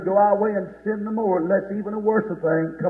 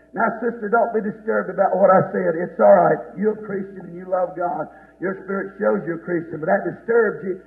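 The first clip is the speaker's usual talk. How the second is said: gentle reassurance. Real, not acted. Pastor telling a sister not to be disturbed, gentle reassurance.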